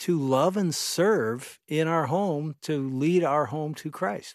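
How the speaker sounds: slow, passionate delivery full of conviction. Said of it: "I say it so passionately".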